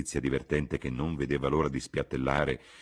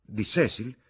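surprised cry; 7 semitones higher, 3 dB louder, slower than usual. A narrator's reading. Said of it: "gridò Lucy".

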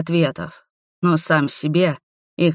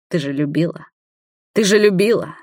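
wheezing rasp. A narrator's reading. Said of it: "прохрипел он".

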